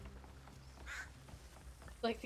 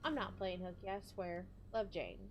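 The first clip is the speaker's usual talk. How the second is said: lightly put-on rural Southern accent; country accent. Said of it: "I had to read it in the country accent".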